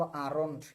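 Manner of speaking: "আরন্ট" with the r sounded before -ont; r pronounced. Shown as a demonstration. Teacher modelling the contraction, "আরন্ট" with a sounded r. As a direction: say "আরন্ট" as aa-ront. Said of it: "আর কে আমরা বলবো".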